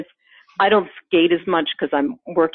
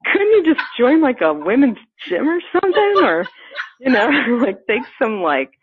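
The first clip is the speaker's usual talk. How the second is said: mocking outsiders; 7 semitones higher than usual. Mocking people's voice.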